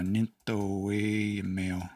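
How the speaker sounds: drawn-out, careful 'nintoe meo'; slow, deliberate Cree word; slow Cree demo. Shown as a demonstration. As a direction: stretch each syllable of 'nintoe meo' for the learner. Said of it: "teaching a Cree verb".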